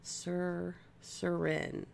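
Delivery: "Sur-", then the whole "Surin"; sounding out a name. Shown as a demonstration. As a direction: carefully build "Surin" from "Sur-". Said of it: "Am I saying it right that time?".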